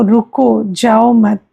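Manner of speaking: रुको set apart, then जाओ मत together; pause after रुको. Shown as a demonstration. Teacher showing students what a comma changes, pause after रुको. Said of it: "रुको के बाद कॉमा है".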